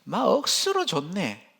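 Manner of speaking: slow, emphatic Gyeongsang dialect; 막 억수로 좋네 drawn out in Gyeongsang dialect. Shown as a demonstration. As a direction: lean into the Gyeongsang twang, unhurried. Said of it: "경상도 말로 하면".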